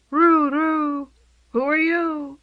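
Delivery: high cooing pigeon. A narrator's reading. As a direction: coo it like a curious pigeon. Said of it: "it asked".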